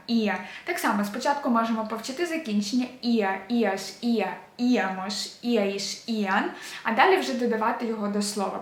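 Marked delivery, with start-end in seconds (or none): 0.1-0.4 «іа» stressed on І, А left weak; correct stress. Shown as a demonstration. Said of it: "він є наголошеним". 3.0-6.5 «іа», «іаш», «іамош», «іаїш», «іан», each stressed on І. Shown as a demonstration. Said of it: "він є наголошеним".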